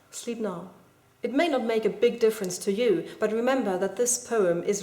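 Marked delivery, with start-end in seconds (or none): 0.1-0.7 sleep now, a little hushed; a quieter take of the line; softer second reading. Shown as a demonstration. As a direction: ease it down, softer. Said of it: "If you read it very carefully, it does make a difference".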